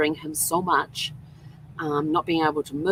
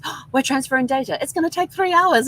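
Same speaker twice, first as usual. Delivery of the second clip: higher, sing-song imitation of the announcement; mock store voice; 10 semitones higher, 4 dB louder than usual. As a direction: parrot the message in a lifted voice. Retelling the store's message.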